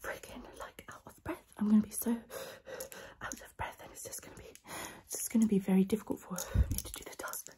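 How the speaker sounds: breathy close-mic ASMR whisper, unvoiced throughout. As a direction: whisper everything intimately into the mic. Whispers ASMR sponsor video.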